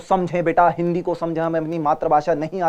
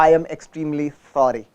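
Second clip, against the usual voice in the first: sincere apology; 4 semitones lower, much slower than usual. Real, not acted. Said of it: "मेरी गलती हो गई".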